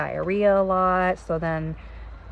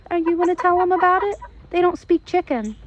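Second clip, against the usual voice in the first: playful teasing; 10 semitones higher, 5 dB louder than usual. Real, not acted. Teasing the chickens, high.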